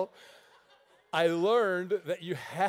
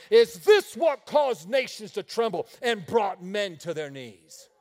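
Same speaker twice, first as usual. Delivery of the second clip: incredulous preaching shout; 9 dB louder than usual. Acted. Preacher mocking the devil.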